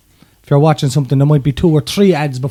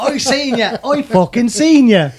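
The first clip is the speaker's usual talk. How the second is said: laughing; 5 semitones higher, slower than usual. Real, not acted. Laughing mock confession.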